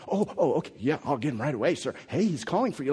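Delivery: eager, fawning about-face; sudden change of tone. Retold or imitated. Crowd snapping to obey Jesus, suddenly eager. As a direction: crowd suddenly sucking up to him. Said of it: "change your tone all of a sudden".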